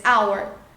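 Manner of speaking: hour said as aweɾ with a silent H; English hour. Shown as a demonstration. Teacher models hour with the H silent. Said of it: "artigo correto antes de hora, em inglês".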